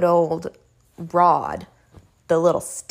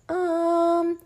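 dentist's um; 10 semitones higher than usual. Retold or imitated. Dentist's hesitant reply quoted.

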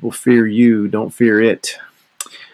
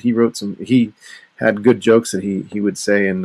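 ordinary talk

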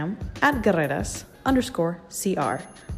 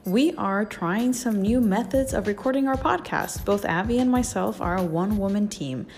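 fuzz distortion. Real, not acted. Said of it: "we apologize for the distorted audio".

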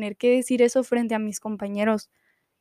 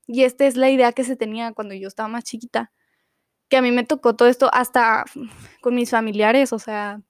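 talking fast. Real, not acted. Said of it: "estaba hablando muy rápido".

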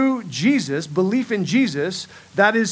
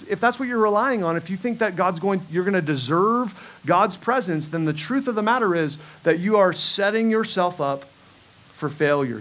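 normal talking voice

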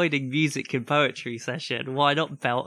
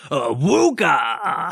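high drawn-out exclamation; slow exaggerated catchphrase; Chris Eubank voice; 3 semitones higher, 8 dB louder, much slower than usual. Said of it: "and then at the end go".

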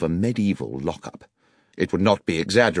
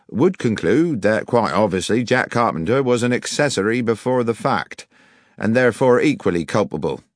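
raised, pompous, condescending policeman; officious police sergeant; 3 semitones higher than usual. Acted. Village sergeant explaining his theory to the detective, pompous. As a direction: spin out the theory self-importantly.

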